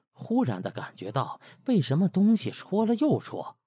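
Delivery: ordinary delivery, nothing marked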